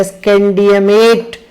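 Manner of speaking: स्कैंडियमेट said slowly, syllable by syllable; wrong form. Shown as a demonstration. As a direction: drag out स्कैंडियमेट as a wrong example. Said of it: "नहीं ऐसा नहीं लिखा जाता". (गलत रूप स्कैंडियमेट धीरे-धीरे बोलना)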